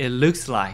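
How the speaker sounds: strong, punched stress on looks. Showing how to say it looks like: stress on looks. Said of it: "looks의 강세를 주시면서".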